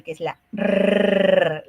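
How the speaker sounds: "R" trilled and held, said slowly; rolled r. Shown as a demonstration. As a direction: roll the "R" long. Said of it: "la vibrante múltiple".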